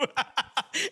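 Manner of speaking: high breathless laughter. Real, not acted. Laughing at the story.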